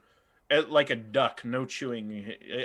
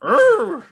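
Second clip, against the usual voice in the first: dog growl; 14 dB louder than usual. Acted. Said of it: "what are these dogs' voices going to".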